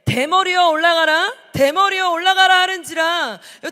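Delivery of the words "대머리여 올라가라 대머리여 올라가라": loud unison reading, shouted out; loud congregational reading. Real, not acted. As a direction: read it out together at full voice. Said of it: "큰 소리로 시작". (회중이 함께 큰 소리로 읽으며)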